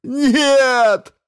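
very high, loud wail; howl. A narrator's reading. The astrophysicist howls at Rao's plan. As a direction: howl the refusal. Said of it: "взвыл астрофизик".

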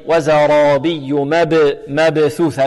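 slow chant, echoed b in مبثوثة; bouncing qalqalah. Shown as a demonstration. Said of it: "القلقلة هنا بارك الله فيكم". (تلاوة مع قلقلة باء مبثوثة)

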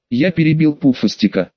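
ordinary delivery

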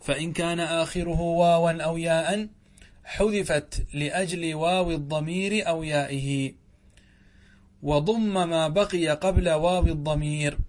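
formal classroom read-aloud; reading out a text. A narrator's reading. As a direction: read the grammar text out deliberately. Reads the grammar text aloud.

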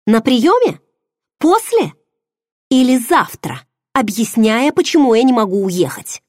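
high, loud, climbing accusing questions; bitter reproach. Acted. Woman on the railing accuses the man who deceived her. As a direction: throw each question at him, pitch rising. Heroine confronting him angrily.

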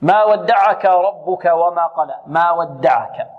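slow, elongated tajwid reading; measured Quran recitation. Shown as a demonstration. Teacher reciting the verse for pupils, slow tajwid. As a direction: recite ما ودعك with held long vowels.

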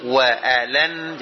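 Wa alan said slowly, long waa; slow model. Shown as a demonstration. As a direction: draw out wa for the pupil.

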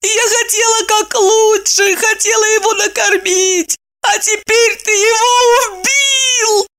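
high sobbing reproach; tearful accusation. A narrator's reading. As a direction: blame him through tears. Wife weeping, blaming husband.

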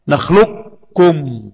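نخلقكم with the qaf fully merged into the kaf, naxluum; نخلقكم said drawn out, qaf swallowed into kaf; full assimilation. Shown as a demonstration. Teacher demonstrating نخلقكم with full merging. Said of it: "قراءة بالإدغام الكامل".

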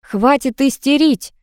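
high, drawn-out exasperated scolding; acted irate outburst; angry yell. A narrator's reading. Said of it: "завопила в ответ лгунья".

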